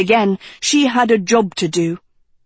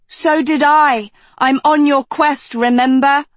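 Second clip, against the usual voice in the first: high, louder retort; raised pitch, indignant retort; Dot's retort; 6 semitones higher, 3 dB louder than usual. A narrator's reading. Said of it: "Dot retorted".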